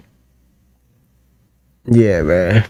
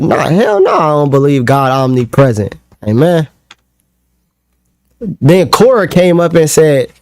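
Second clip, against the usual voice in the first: mocking gloat; 3 semitones higher than usual. Mocking victory recap.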